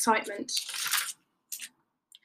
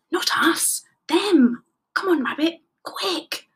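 whisper; 7 semitones higher, slower than usual. A narrator's reading. Hiding from the men.

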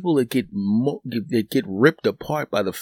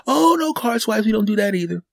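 high teller voice; 11 semitones higher than usual. Retold or imitated. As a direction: play the chirpy teller. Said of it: "teller voice".

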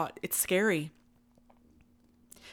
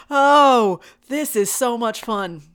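loud joyful exclamation; excited; 5 semitones higher, 12 dB louder, slower than usual. Real, not acted. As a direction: burst out with delight. Exclaims after laughing.

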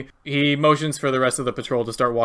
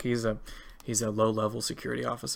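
quick, softer voice, not a full whisper; hushed aside; 3 semitones lower, 10 dB quieter, faster than usual. Acted. Ross leaning over to inform a teammate, hushed. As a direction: drop the volume for a discreet aside. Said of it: "Ross leans over and whispers".

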